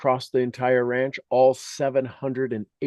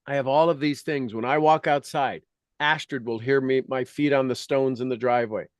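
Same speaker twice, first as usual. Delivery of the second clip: usual speaking voice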